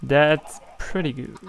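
put-on a touch of a drawn-out English accent; slow, playful English accent. The speaker jokes to his viewers in a light English accent. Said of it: "je parle avec mon accent anglais".

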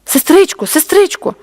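put-on high-pitched little girl's call; child calling out. A narrator's reading. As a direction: call for the counsellor like an anxious child. Girls calling the counsellor for help.

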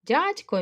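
Дядько with a soft palatal дь; the teacher shows the soft дь in Дядько; soft дь demo. Shown as a demonstration. Teacher demos soft дь for pupils. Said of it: "В".

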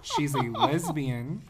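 laughing as you explain it to the listeners. Real, not acted. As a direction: talk through laughter. Joking aside to Iowa listeners.

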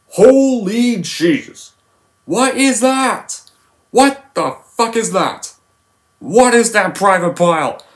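high, barking drill sergeant voice; Sergeant Hartman. Retold or imitated. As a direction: yell at the recruit from above. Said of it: "How does the scene go?".

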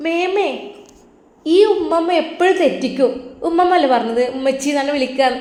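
put-on high, childlike voice scolding grandma; little girl voice. Little granddaughter correcting grandma, high childlike voice. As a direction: play a small girl correcting her granny.

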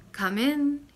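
gently sung-out welcome; sweet voice. A narrator's reading. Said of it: "answered the sweet voice".

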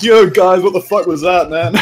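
imitating angry gamer. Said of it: "there's gonna be some hopping".

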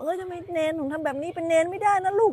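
high, loud mock scolding of a child; a parent gently scolding their child, high and loud. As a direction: play the exasperated parent telling a kid off. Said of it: "จะบอก".

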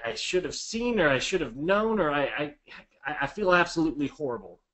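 owning the fault with mild stammering regret; taking the blame. Shown as a demonstration. Agent apologizing to seller, mildly halting and regretful. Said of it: "Take a hundred percent of the blame".

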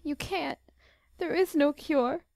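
a mild tearful despair; voice giving way. A narrator's reading. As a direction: let the voice crack on the words. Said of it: "There Beth's voice gave way".

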